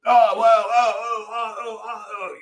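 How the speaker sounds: hammed-up fluster, starting loud and trailing away; mimicked flustered reply. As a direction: imitate someone fumbling for an answer in a high voice. Mimicking the flustered answer to question.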